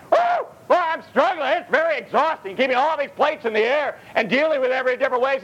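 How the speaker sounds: high, breathless mock complaint; mock frazzled juggler. Congregant's overwhelmed voice mocked.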